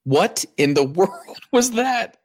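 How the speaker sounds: baffled laugh mid-question; amused surprise. Real, not acted. Friend makes strange noise stretching.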